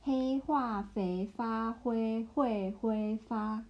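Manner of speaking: slow model reading. Shown as a demonstration. Teacher slowly models the Chinese tongue twister for the learner. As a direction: say each syllable of the tongue twister slowly and evenly.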